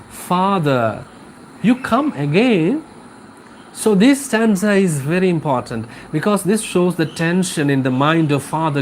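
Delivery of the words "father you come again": a lightly voiced wife, the question rising up on "you"; the wife greeting the priest in mild surprise; surprised wife. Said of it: "The sick man's wife opened the door".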